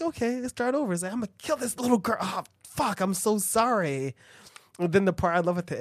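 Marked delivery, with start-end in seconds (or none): 0.0-0.9 high mock voice. Acted quote, high voice. 1.1-4.1 high mock voice. Acted killer quote, high.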